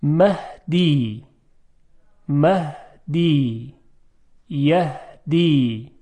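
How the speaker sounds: مهدی and یهدی slowly, with an ordinary breathed ه; soft ha. Shown as a demonstration. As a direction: let the ه in مهدی and یهدی flow softly. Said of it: "این هی دو چشم است". (تلفظ کشیدهٔ مهدی و یهدی با هٔ دوچشم نرم)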